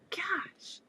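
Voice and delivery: breathless whisper; whispered gosh. Retold or imitated. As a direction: whisper it in awe. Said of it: "you're just like".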